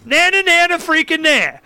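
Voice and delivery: high, teasing nana nana chant; taunting singsong. Retold or imitated. Mocking the campaign people, childish singsong taunt. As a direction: taunt them like a schoolkid.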